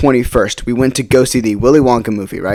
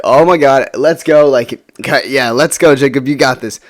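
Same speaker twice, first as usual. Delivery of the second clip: retold pep talk, a bit louder; excited self-hype; 2 semitones higher, 4 dB louder than usual. Psyching self up after a crush confesses, excited. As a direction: pump yourself up, mock-triumphant.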